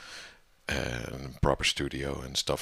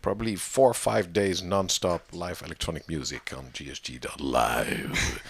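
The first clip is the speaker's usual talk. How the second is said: radio presenter voice. Pretend. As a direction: announce it like a DJ on air. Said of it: "You sound like a radio presenter".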